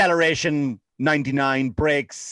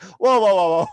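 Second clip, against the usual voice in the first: higher, louder startled objection; mock protest; 4 semitones higher, 4 dB louder than usual. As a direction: cut in with mock alarm. Retold murderer objects in alarm.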